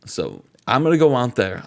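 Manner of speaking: lightly voiced Booker T giving a pep talk; imitating Booker T rallying his stablemate. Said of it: "I'm Booker T saying this".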